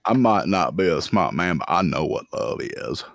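a hint of a simple, earnest movie character; Forrest Gump. Joking with the guys about love, lightly imitated movie character. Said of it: "talking in my Forrest Gump voice".

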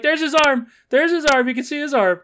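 high, loud excited yelling at the screen; excited shouting. Retold or imitated. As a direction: point and yell it out, thrilled. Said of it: "I'm, like, pointed at the screen".

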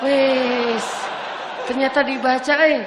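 put-on a young man beside himself that she read it; laughing excitement. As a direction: squeal it out, thrilled and laughing. Thrilled message was read.

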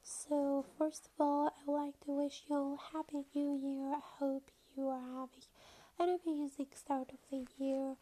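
stuffy nose, congested tone; nasal voice. Real, not acted. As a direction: talk through a blocked nose. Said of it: "apologize for my nasal, uh, voice".

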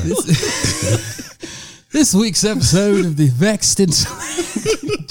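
laughing through the show intro. Real, not acted. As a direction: try to read the intro while cracking up. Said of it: "laughing through the intro".

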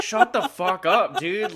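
mock annoyed outburst at the screen; annoyed snap. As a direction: bark it like you've had enough. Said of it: "kinda getting annoyed".

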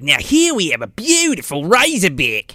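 hammed-up Australian wildlife host; Steve Irwin. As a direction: present the beast in a mock Australian accent. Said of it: "he starts talking about it like".

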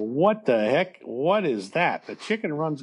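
incredulous, with big swings in pitch; baffled disbelief. Retold or imitated. Dad answering his daughter's odd question, baffled. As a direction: react as if that makes no sense at all.

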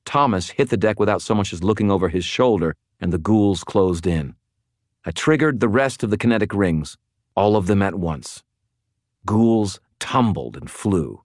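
ordinary delivery, nothing marked

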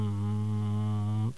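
low, soft droning hum; microwave hum. Pretend. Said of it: "that's my microwave impression".

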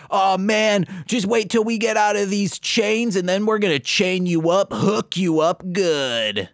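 cocky threat. Retold or imitated. Turbine threatening again.

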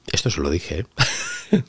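whispered confession aside; conspiratorial whisper to the audience. Real, not acted. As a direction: lean in and whisper it like a secret. Confiding aside.

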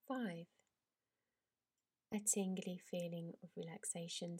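drawn-out countdown with long pauses; slow soothing countdown. Acted. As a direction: count down gently, easing into relaxation. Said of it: "I'd like to count down from ten, helping you to relax".

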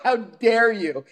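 high, slow, scandalized imitation; theatrical mock outrage; mock pearl-clutching. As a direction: draw it out as hammed-up affront. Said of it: "clutched the pearls".

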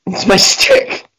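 slow self-mocking whisper. Real, not acted. Owning his ignorance, slow mock whisper. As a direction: breathe it out slyly, slow. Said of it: "whispered self-mocking".

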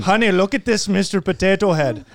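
put-on comic take on a Kyrgyzstani accent. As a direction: voice a parent with a mock Kyrgyzstani accent. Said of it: "Kyrgyzstani accent".

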